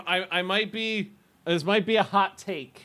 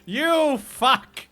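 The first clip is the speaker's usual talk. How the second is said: loud, hammed-up yelling craving for stew; mock angry yell; 7 semitones higher, 6 dB louder, slower than usual. Streamer voices her stew craving yelling at the weather, mock angry yell. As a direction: bark it like a hungry demand. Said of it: "It's like".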